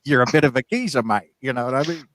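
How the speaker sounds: cheeky mock Cockney callback; clumsy Cockney impression; bad Cockney accent. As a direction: put on an amateur East London geezer accent. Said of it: "Stop doing the accent".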